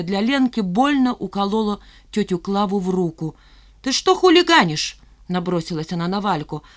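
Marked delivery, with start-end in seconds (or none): 3.8-5.0 high, shrill scolding; shrill nagging grandma. A narrator's reading. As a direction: tell off the hooligan. Aunt scolds boy.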